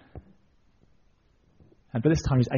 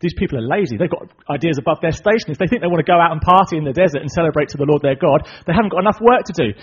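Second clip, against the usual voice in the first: loud, indignant mock tirade; angry Pharaoh; 3 semitones higher, 6 dB louder than usual. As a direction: rant with rising indignation. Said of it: "Pharaoh gets quite angry".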